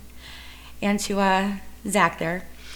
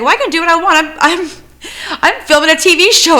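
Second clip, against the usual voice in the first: mock defiant yell; 9 semitones higher, 7 dB louder than usual. The speaker retold defying city guy.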